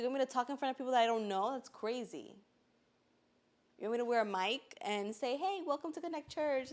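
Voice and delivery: fast, loud, rising disbelief; you can't be serious, hurry it out; mock outraged retelling; incredulous protest. Retold protest at being asked.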